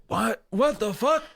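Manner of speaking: high-pitched bewildered question; baffled reaction. Retold or imitated. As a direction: squeak out your confusion, rising at the end. Woken dazed, hearing alarming news.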